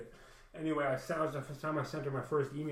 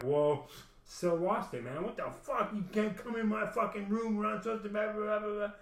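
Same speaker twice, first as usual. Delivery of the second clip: higher, mock-hysterical rant; mocking her freak-out; 7 semitones higher than usual. Mocking the partner yelling at the niece, high mock tantrum. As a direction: ham up a woman losing it. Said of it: "they're all like".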